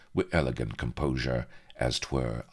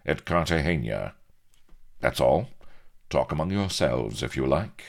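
casual; 5 semitones higher than usual. Acted. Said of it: "he remarked casually".

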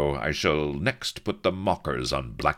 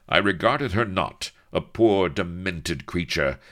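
irritable; 5 semitones higher, 6 dB louder than usual. Acted. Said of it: "quo he irritably".

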